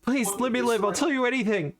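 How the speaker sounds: high, pleading captive; crying out in fear. Acted. Captured man begs his interrogators, crying out in fear. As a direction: plead for your life, pitched high. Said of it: "cries out".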